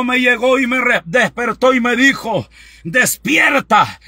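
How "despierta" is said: slow, stretched shout of the word; urgent wake-up call. Retold or imitated. Mother rousing her son, a drawn-out shout. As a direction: shout him awake, dragging it out.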